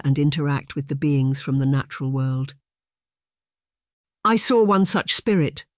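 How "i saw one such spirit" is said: higher, eager burst of excitement; thrilled to share what she saw; excited. A narrator's reading. Niece telling her aunt of the spirit, excitedly. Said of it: "she said excitedly".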